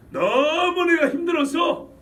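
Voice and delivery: drawn-out, overwrought complaint; exaggerated complaint. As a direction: stretch out the first word like a weary grumbler. Voicing people's weary complaint. (힘들다고 길게 늘여 하는 하소연)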